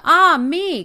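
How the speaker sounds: loud, high wail of dread; anguished cry. Acted. Wife hears the bird's song again, loud anguished wail. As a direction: wail it out in terror. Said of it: "cried the wife".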